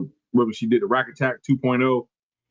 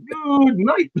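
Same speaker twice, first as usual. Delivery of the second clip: Good night called out high and rising; mock ringside call; 14 semitones higher than usual. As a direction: call it like a knockout is over. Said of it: "I said".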